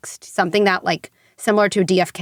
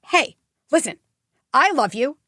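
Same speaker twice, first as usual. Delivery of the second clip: higher, firm but loving parent; sturdy parent; 4 semitones higher than usual. Shown as a demonstration. Parent to an upset kid, firm and loving. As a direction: show a parent staying calm and connected. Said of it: "Like, that is sturdy".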